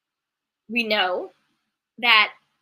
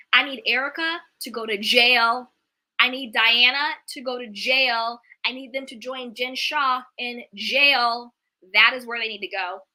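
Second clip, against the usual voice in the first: firm, louder demands for jail; heated rant; 3 dB louder than usual. Real, not acted. Fan ranting at the reality star on screen, heated. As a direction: lay down the verdict, fed up. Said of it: "Sorry, I know I just got heated".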